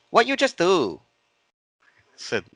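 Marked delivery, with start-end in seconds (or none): 0.1-1.0 high, loud mock Asian accent; clipped broken English in an Asian accent, pitched up. Lady at the spring questioning him, in a put-on Asian accent. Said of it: "I'm gonna do an Asian accent".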